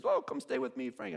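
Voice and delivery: a hint of a friendly Aussie; friendly Australian. Australian med student invites.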